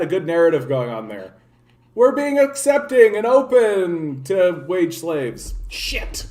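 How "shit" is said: a quick whispered shit under the breath; real whispered oops; whispered curse. Real, not acted. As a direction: swear under your breath, caught out. Catches himself mid-rant.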